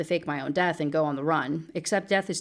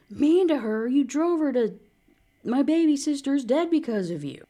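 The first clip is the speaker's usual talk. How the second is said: higher and louder, outraged; furious outburst; 9 semitones higher, 4 dB louder than usual. Acted. Sister confronts Natalie over her dead sister, furious. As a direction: let the grief-fuelled anger boil over.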